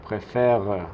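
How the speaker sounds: "préfère" with an added schwa after the r; final e pronounced. Shown as a demonstration. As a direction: mispronounce "préfère" by voicing its last e. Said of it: "si no tuviera este acento, podríamos pronunciar".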